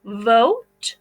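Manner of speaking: vote, the long o drawn out slowly; slow stretched vote. Shown as a demonstration. Teacher reading a word to children, vote drawn out slowly. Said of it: "we have vote".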